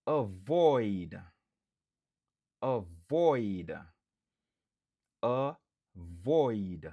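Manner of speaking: avoid with VOID stressed; stress on second syllable. Shown as a demonstration. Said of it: "stress syllable lan, li sou dezyèm silab lan".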